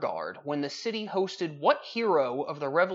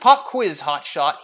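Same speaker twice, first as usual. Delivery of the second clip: raven voice; 10 dB louder, slower than usual. Acted. Raven taunting the poet in the poem, shrill and loud. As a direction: snap it out like a cocky bird. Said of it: "he quothed".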